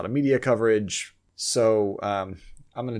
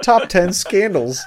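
clickbait announcer; 8 semitones higher, 8 dB louder, much slower than usual. Pretend. Parodying clickbait headline.

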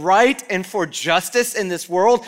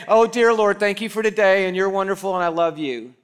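mock sweet prayer. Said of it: "and say".

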